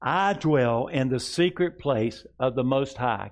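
slow, deliberate congregational recitation; slow call-and-response declaration. Shown as a demonstration. Pastor leading the congregation in a slow declaration. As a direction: lead it slowly for the room to repeat. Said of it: "all of us say with me".

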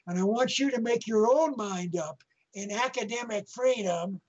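leaning on own in make your own mind up, said as a firm point; emphasis on own. Retold or imitated. Lecturer urging a colonel to tell students: stress on own. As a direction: press the word own so it stands out. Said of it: "I put the emphasis there".

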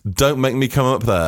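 a touch of threat, pitched a little up; mock parental threat. Parent warning kids upstairs, mildly threatening. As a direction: warn like a parent at the foot of the stairs. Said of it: "it was just very threatening".

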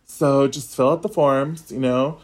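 lightly imitated gay male lilt; a mild take on a gay man's way of talking; gay accent. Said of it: "not to make fun of a gay accent, but it was like this".

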